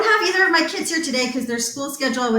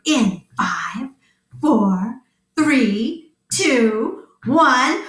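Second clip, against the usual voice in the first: countdown; much slower than usual. Acted. Countdown before blast off.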